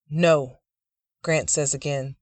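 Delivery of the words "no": loud, firm no; firm refusal. Acted. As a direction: plant your feet and refuse. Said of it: "this time firmer".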